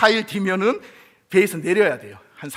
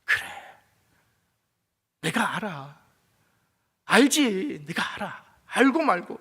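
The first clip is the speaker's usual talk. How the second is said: gentle reassurance; 2 semitones higher than usual. Pretend. God gently reassures the suffering believer. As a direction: comfort a tired child.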